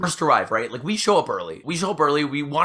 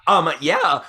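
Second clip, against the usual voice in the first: mock arrogant; 2 semitones higher, 5 dB louder than usual. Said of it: "she was so arrogant about it".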